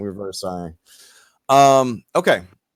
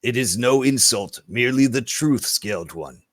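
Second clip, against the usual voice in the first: blunt lizard folk. Acted. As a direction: deliver hard truths with measured gravity. Game master voices lizard folk.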